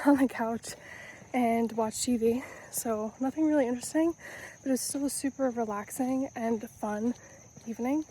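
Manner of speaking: talking while running; breathless from running, words between breaths. Real, not acted. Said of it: "I'm out of breath 'cause I'm running".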